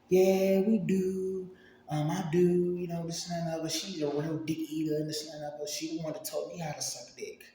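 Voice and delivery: high-pitched mimicked girlfriend; imitating eager girlfriend.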